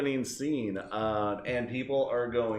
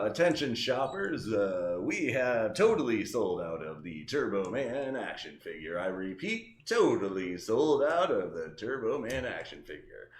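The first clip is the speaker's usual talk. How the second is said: softer store manager on the PA; store intercom announcement; 3 semitones lower, 4 dB quieter than usual. Acted. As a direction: read it like a store page. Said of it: "store manager gets on the intercom and goes".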